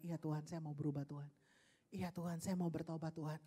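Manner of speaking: soft, low prayer; quiet repentant prayer. Acted. Believer answering God's gentle word, quietly repentant. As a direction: murmur it humbly to God.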